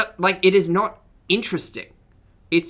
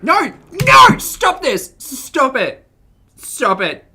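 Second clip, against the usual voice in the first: loud high yell of no and stop it; 9 semitones higher, 9 dB louder, slower than usual. Real, not acted. Podcaster yelling at streamer to stop, real shout. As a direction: shout them down, furious. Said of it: "I'm yelling".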